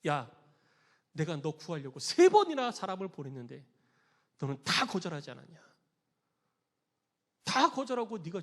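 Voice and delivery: low, measured scolding; acted divine reprimand; God's rebuke. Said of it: "책망받았다는 이야기예요".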